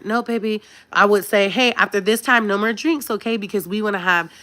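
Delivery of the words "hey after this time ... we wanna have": gentle mom voice. Retold or imitated. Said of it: "you don't gotta talk to 'em like that".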